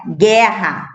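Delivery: guerra said as gehha, silent U; model word. Shown as a demonstration. Teacher modelling the gué sound for kids. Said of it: "o mesmo som de gué".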